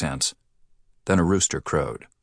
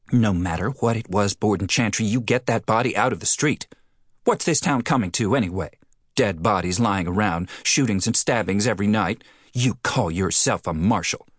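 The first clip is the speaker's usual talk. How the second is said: higher, prim scolding woman; indignant scolding; 4 semitones higher than usual. Acted. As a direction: scold him like a fussy lady. Postmistress keeps scolding.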